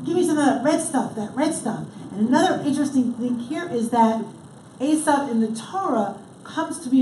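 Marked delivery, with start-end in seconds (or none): 0.0-1.8 mildly desperate plea, rushed; hurried begging with a repeated RED STUFF. Acted. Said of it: "it's the emphasis of desperation".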